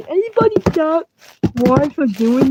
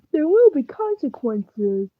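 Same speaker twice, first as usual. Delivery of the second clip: ominous warning; 6 dB quieter than usual. Acted. To a fellow player, a slow ominous warning. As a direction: drag it out like a dark threat. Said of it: "Why are you talking like that?".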